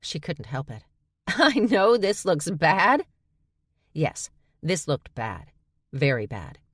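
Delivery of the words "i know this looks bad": high, loud, slow mocking echo; laughing incredulous repeat. A narrator's reading. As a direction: throw the words back in disbelief. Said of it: "Charlie laughed".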